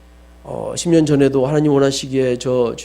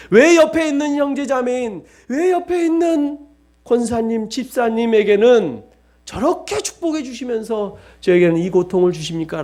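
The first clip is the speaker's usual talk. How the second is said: much higher plaintive complaint; complaining to God; 6 semitones higher than usual. Retold or imitated. Believer grumbling to God about others, high plaintive whine. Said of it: "라고 말할 수 있습니까?".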